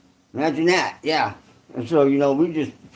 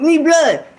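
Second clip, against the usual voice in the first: mock Vietnamese accent; 9 semitones higher, 4 dB louder than usual. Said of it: "They're like".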